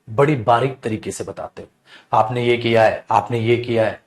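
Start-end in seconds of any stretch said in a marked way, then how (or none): 2.1-4.0 lightly voiced nitpicking; critical fault-finding. Shown as a demonstration. Teacher showing a critical tone, mildly. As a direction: point out each mistake pointedly. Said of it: "अंदाज क्या है, critical वाला है".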